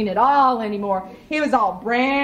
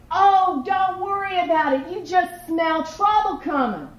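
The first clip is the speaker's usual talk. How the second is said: Rabbit voice; 7 semitones higher than usual. Acted. Rabbit voiced in folk tale.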